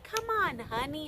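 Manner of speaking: high, sing-song come on honey; coaxing. Retold or imitated. Singer coaxing the fan onto the floor, high and playful. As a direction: lure her in playfully.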